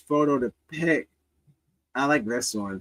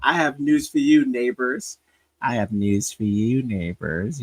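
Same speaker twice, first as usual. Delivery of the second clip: lightly voiced menacing nerd; mock a nerd warning the neighbors; Howard; 2 semitones lower than usual. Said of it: "think Howard didn't talk like this".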